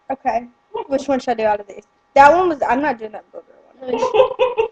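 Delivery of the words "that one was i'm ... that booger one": laughing through disgust; half laughing, slowed down. Real, not acted. Disgusted after booger bean.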